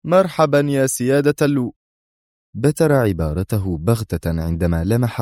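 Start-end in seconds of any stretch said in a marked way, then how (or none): 0.0-1.7 higher, welcoming hail cut short; hearty hello, broken off; broadly smiling greeting. A narrator's reading. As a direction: greet a dignitary with a big smile. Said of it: "ويرسم على شفتيه ابتسامة كبيرة قائلا".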